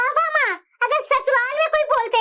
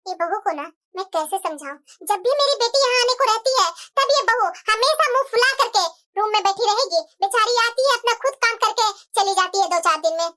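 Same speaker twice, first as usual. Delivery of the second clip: lightly voiced complaining mother-in-law; 4 semitones lower than usual.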